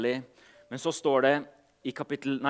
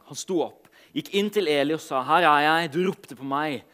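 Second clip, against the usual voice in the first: measured Bible reading with pauses; solemn storytelling from scripture; 3 semitones lower than usual. A narrator's reading. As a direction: read the passage aloud to a congregation, phrase by phrase. Reads Bible passage aloud to congregation.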